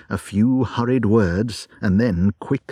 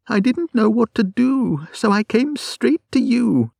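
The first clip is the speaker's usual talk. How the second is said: much higher, anxious plea; distraught visitor; frightened Kate; 13 semitones higher than usual. Acted. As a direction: rush it out helplessly.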